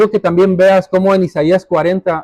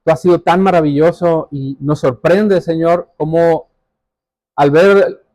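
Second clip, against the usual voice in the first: prayer. Real, not acted. Closing prayer.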